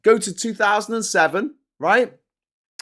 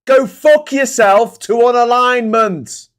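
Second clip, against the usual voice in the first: angry; 6 semitones higher, 7 dB louder, slower than usual. Real, not acted. Ranting at the Express.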